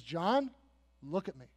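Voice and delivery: soft, low, tender call; steady someone who is in trouble; gentle reassurance. Acted. Christ comforting John at lowest point.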